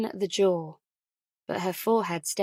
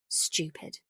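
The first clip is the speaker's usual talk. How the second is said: whispered; 4 semitones lower, 9 dB quieter than usual. Acted. Ellie's inner self-rebuke.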